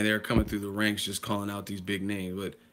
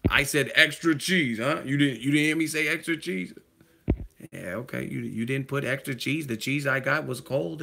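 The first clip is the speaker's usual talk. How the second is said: Denzel-style rant; 4 semitones higher than usual. Retold or imitated. Playing Denzel scolding the nacho server, higher and indignant. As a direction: lean in like an offended customer. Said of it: "I like when Denzel get in rhythm".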